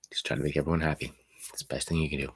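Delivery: quick resigned whisper. Real, not acted. Advising the caller to keep the peace, whispered. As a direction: let it slip out softly, defeated.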